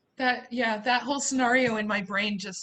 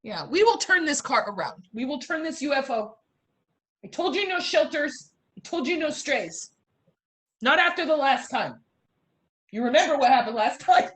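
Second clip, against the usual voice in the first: scolding mom. Acted. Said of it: "like you're really yelling at somebody".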